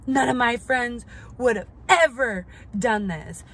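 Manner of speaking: mocking her tearful whine; mock crying. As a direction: imitate her sobbing complaint. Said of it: "But she's like".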